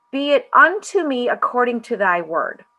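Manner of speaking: measured recitation, lifted in pitch; reciting a line. A narrator's reading. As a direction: read it out as a scripture line. Actor recites the script line.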